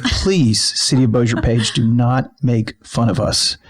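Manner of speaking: slow, deliberate mock-earnest appeal; mock plea. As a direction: plead straight to the listener, tongue in cheek. Repeats mock plea to the page.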